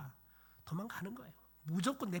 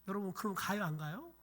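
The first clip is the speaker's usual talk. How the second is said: normal talking voice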